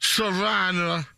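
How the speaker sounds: slowly spelling out Savannah; drawn out over a mouthful; slow repeat. Pretend. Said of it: "I have stuff in my mouth".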